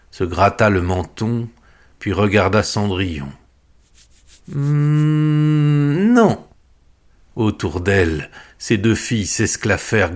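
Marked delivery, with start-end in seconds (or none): 4.5-6.5 high, drawn-out hum then sharp no; tease, then crush her hope; mocking refusal. Stepmother mockingly refuses ball. (refus moqueur et perché)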